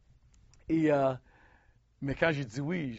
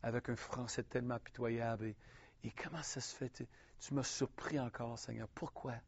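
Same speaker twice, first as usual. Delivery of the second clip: softer, hushed and a touch tearful; tearful retold prayer; 6 dB quieter than usual. Preacher recalling his night prayer, softly tearful. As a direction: pray quietly as if still moved to tears. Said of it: "je pleurais".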